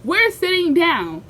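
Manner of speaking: deadly serious storyteller turning the moment heavy. Shown as a demonstration. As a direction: drop the jokes and make it grave. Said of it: "Let me, let me get serious for y'all".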